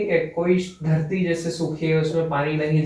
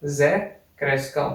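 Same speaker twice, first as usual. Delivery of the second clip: ओ ज़ेक्रस्काओ drawn out slowly; slow teacher dictation; slower than usual. Shown as a demonstration. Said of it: "आप लिख लीजिए".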